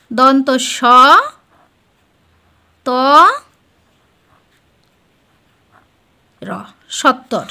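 each sound given alone, then সত্তর as a whole word; slow spelled-out sounds. Shown as a demonstration. Teacher to students, spelling out sounds slowly. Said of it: "এখানে উচ্চারণটা কি হচ্ছে?".

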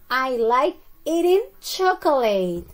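slow, stretched-out example for learners; slow model sentence. Shown as a demonstration. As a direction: model the sentence slowly for the class. Teacher models the answer sentence.

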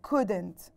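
"couldn't" said as /kudent/, no L sounded; silent L. Shown as a demonstration. Teacher showing pupils "couldn't" with no L. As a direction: say "couldn't" like "cud-ent", drop the L. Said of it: "we pronounced the word as if there is no L".

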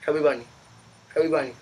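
talking through marshmallows; words muffled by a stuffed mouth; mouth full. Real, not acted. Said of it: "I'm gonna chew it".

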